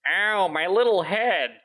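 high, slow hammy dub voice; overacted anime dub. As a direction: whine it like a cheesy dub actor. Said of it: "the dub voice goes".

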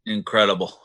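sarcastic. Real, not acted. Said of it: "Did you sense the sarcasm in his voice".

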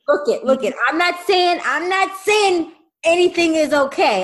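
high, loud protest; high-pitched defensive plea. Real, not acted. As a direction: hold up your hands, I'm not saying it's okay.

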